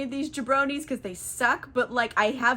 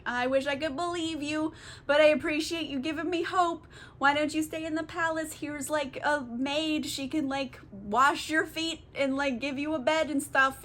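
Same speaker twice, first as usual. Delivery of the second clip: gentle wistful retelling; 4 semitones higher than usual. Retold or imitated. Acts out Penelope gently declining hope.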